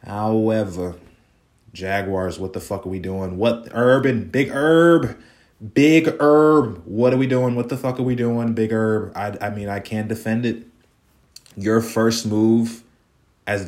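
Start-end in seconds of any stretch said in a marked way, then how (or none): 3.4-9.1 exasperated outcry. Real, not acted. Venting at the Jaguars coach.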